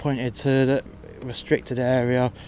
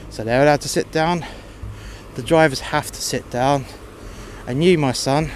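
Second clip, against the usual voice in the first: louder, raised voice laying down the law; firm telling-off; 2 semitones higher, 4 dB louder than usual. Retold or imitated. Staff member telling the kid off, louder firm lecture. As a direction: put the cheeky kid in his place.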